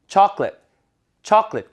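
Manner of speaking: chocolate as a punched "CHAH-klit"; tensed, reduced English. Shown as a demonstration. Teacher leading repetition, chocolate with strong first beat. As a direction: hit the front of chocolate, weak ending. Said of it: "해보세요".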